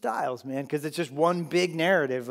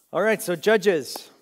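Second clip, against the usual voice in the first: louder, slow, emphatic; booming teacher voice; emphatic announcement; 5 semitones higher, 11 dB louder, slower than usual. Real, not acted. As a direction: announce the new book to the room. Teacher announcing new topic.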